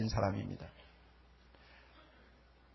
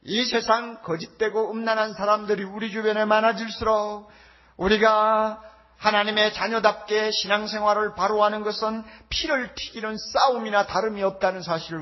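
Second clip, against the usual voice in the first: louder, emphatic pulpit delivery; forceful preaching; 5 semitones higher, 5 dB louder than usual. Real, not acted. Preacher warning the congregation about the narrow path, forceful preaching. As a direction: preach it with raised voice.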